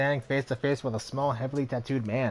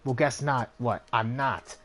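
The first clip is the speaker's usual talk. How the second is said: raucous; 3 semitones higher than usual. Acted. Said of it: "her normally small voice growing raucous".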